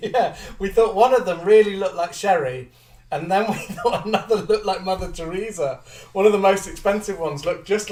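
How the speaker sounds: talking through giggles; laughing. Real, not acted. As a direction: laugh as you tell it. Joking about dolls' faces.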